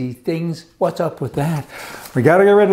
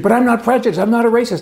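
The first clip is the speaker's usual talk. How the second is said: higher, pleading mock voice of the teller; mock bank teller; 9 semitones higher, 4 dB louder, faster than usual. Retelling the bank teller's protest, in a higher mock voice. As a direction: imitate her defensive protest, pitched up.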